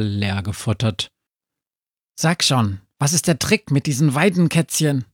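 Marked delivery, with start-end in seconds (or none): 2.2-5.1 higher, quick, curious dog; talking dog. A narrator's reading. Sami the dog quizzes Befana, curious talking dog. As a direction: prod for the secret in a higher voice. Sami voiced in read story.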